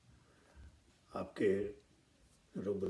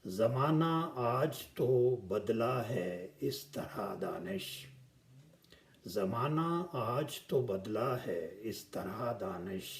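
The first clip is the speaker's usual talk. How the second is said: ghazal recitation. Acted. Poet presenting his ghazal to the gathering, measured recitation.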